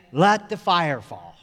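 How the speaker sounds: slow, measured ceremonial call; master of ceremonies. Retold or imitated. Master of ceremonies calling to the camp, slow ceremonial call. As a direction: announce it slowly, letting the last word drop. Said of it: "he would always say".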